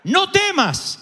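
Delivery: an angel calming a frightened mother from above; angel's comfort. Acted. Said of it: "un ángel del cielo dice".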